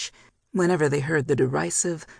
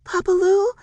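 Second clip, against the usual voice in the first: very high, loud cry; alarmed exclamation; 6 dB louder than usual. A narrator's reading. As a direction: cry out for grandpa. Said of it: "she exclaimed".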